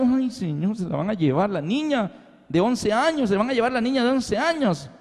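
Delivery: lightly voiced distressed mother; anguished mother. Enslaved mother watching daughter being sold.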